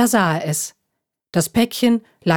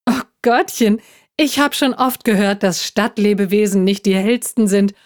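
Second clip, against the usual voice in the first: cheeky; 4 semitones higher than usual. Acted. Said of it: "bemerkte der Igel frech".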